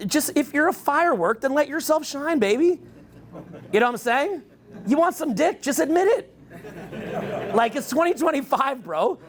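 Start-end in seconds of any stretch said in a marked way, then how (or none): 4.9-7.5 laughing tease. Real, not acted. Teasing the looks-maxxers.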